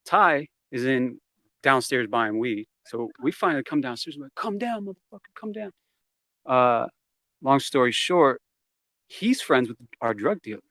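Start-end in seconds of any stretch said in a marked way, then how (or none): 4.3-5.7 mock yelling. Retelling yelling up at man.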